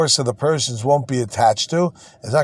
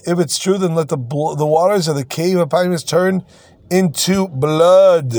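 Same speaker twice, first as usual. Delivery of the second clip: dramatic pronouncement; 3 semitones higher than usual. Retold or imitated. Quotes sage pronouncing a dramatic sign.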